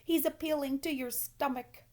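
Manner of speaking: loud, high, urgent goose; a bossy goose barking orders; goose crying out. A narrator's reading. Goose shouting orders to Wilbur, loud and high. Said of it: "said the goose".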